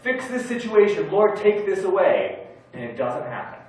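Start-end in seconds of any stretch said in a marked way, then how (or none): 0.0-2.5 louder, higher desperate plea to God; retelling his own desperate prayers; pleading prayer. Retold or imitated. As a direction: cry out to the Lord for help. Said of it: "I've prayed and I've said".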